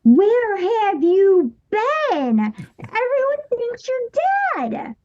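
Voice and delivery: high, slow, softening to near tears; pleading with the lost cousin, high and tearful; tearful plea. Retold or imitated. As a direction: beg him, voice close to breaking. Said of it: "and I was like".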